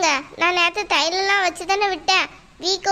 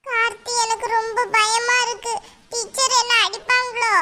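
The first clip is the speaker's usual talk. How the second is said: put-on slightly high, small worried kid voice; scared child; 4 semitones higher than usual. Pupil worries to a friend about being hit, scared child voice. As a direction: sound mildly afraid, like a little pupil. Pupil fears teacher will beat her.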